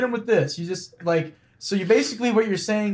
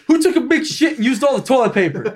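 retold angry rant, fast and higher; angry janitor; 4 semitones higher, 3 dB louder, faster than usual. Friend retelling the janitor's complaint, mock angry. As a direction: rattle it off as a mock outraged janitor. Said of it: "angry janitor guy goes".

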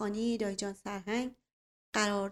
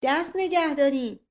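loud, higher order to halt; commanding shout; 5 semitones higher, 8 dB louder than usual. A narrator's reading. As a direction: call out sharply from the doorway to stop them. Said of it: "صدایی از جانب در بلند شد". (فریاد آمرانه)

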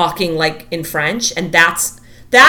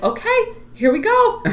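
laughing mock cheer. Mocking the household's routine with Ben.

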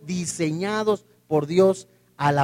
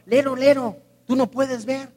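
put-on childish taunt; 4 semitones higher than usual. Childish taunt, eye to hand.

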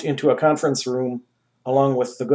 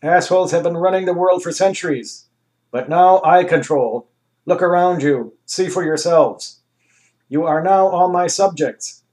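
grand ruler; 5 semitones higher, 4 dB louder than usual. Acted. Anus voice held.

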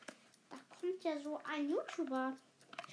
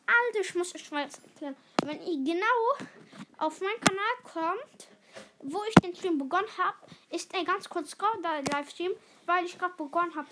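louder, eager explaining; 6 dB louder than usual. Real, not acted. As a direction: push it out to the viewers. Explaining stream loudly.

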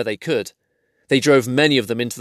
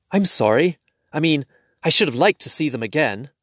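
sleepy; 4 semitones higher than usual. Acted. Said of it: "said Bilbo sleepily".

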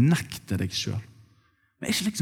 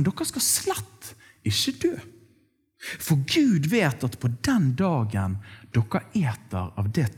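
sly serpent; slower than usual. Acted. The serpent tempting Eve in the garden, sly and slow. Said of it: "Men så kommer den onde".

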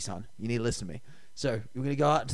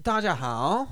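put-on Chinese accent; mock Mandarin greeting in a Chinese accent; Asian accent; 3 semitones higher, slower than usual. Shown as a demonstration. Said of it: "one hundred percent an Asian accent".

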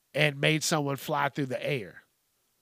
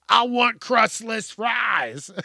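laughing shout; 7 semitones higher, 4 dB louder, much slower than usual. Real, not acted. Laughing at his own joke.

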